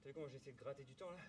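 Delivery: panting, talking while out of breath; gasping for air between words. Real, not acted. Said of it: "je peux pas respirer".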